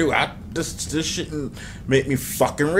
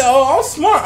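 higher, louder retold boast; mock self-praise; 10 semitones higher, 5 dB louder, slower than usual. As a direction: mimic your own earlier bragging. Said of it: "I gave myself a compliment".

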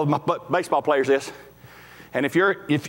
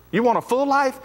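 emphatic repeat; 11 semitones higher than usual. Real, not acted. Preacher repeats question to congregation.

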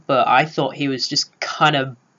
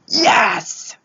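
excited cheer. Retold or imitated. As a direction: cheer him on like a goal. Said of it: "I was like".

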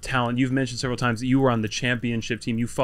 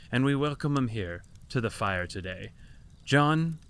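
measured, mock-grand host intro; show introduction; 6 dB quieter than usual. Host welcoming a silver sage to the fire, mock-reverent announcer. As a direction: build up the guest with lofty, tongue-in-cheek formality.

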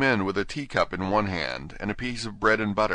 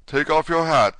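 king voice; 9 semitones higher, 7 dB louder than usual. Acted. King orders the Hatter.

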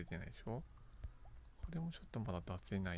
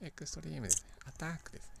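エクストリーム and アタック pitched higher, dramatic edgy flair; chuunibyou flair; 6 semitones higher, faster than usual. Acted. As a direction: sell エクストリーム like a teen anime hero. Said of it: "ちょっと中二っぽくなりましたけど". (中二病っぽく「エクストリーム」)

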